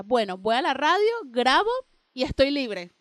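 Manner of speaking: loud, pointed hint to the guy; dropping a hint. Retold or imitated. To the guy she likes, a loud, pointed hint. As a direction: spell out the free evening loudly and meaningfully. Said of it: "tirándole en directa".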